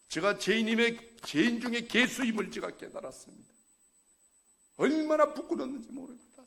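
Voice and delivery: loud, high sermon exhortation; fiery preaching. Acted. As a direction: preach it out to the congregation. Preaching confession. (큰 소리로 열정적으로 설교하듯)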